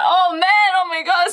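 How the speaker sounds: high, loud exasperated outcry; mock groan of dismay. Essie told to help cook again, loud high groan. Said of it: "And he's like".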